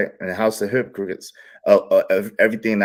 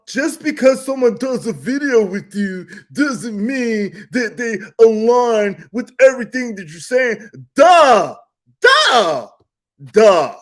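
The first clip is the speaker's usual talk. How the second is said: exasperated shouting; 10 semitones higher, 4 dB louder, slower than usual. Real, not acted. Shouting at other speaker.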